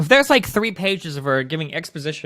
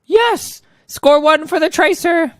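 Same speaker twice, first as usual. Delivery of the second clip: high, drawn-out cheer; exaggerated high victory cry; mock triumphant heroine; 12 semitones higher, 5 dB louder, much slower than usual. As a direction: celebrate in a hammed-up, pitched-up character voice. Acting triumphant comic character.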